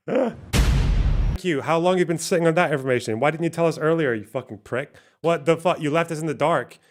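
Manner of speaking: mock outrage.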